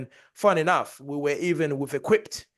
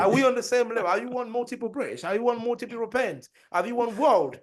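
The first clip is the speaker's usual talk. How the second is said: mock arrogant; 8 semitones higher than usual. Mock arrogant interrogation continued.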